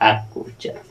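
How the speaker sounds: ᱟ said softly and breathily as a demo; teacher's letter demo; sounding out a letter. Shown as a demonstration. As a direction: breathe out ᱟ clearly for the class. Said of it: "ᱱᱚᱣᱟ ᱫᱚ ᱪᱮᱫ ᱠᱚ ᱩᱪᱪᱟᱨᱚᱱᱟ?".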